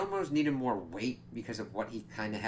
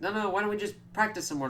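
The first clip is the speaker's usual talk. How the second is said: much higher, fast nervous pleading; imitated panic; 11 semitones higher, faster than usual. Guillermo stalling the vampire hunters, mock panicked pleading. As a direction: rush it like you're stalling in fear. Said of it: "Guillermo's freaking out".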